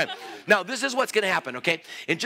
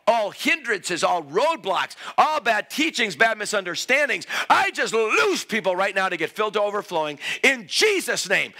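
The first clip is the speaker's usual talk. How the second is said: raised, driving prayer; forceful prayer; 3 semitones higher than usual. Real, not acted. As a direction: pray with authority over the crowd. Prays aloud over people.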